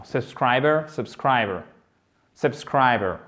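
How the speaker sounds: subscriber with SCRI clear and BER swallowed; almost drop the end of subscriber; barely pronounced ending. Shown as a demonstration. Teacher shows the weak last syllable, barely pronounced ending on subscriber. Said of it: "Vous prononcez en fait presque pas à la fin".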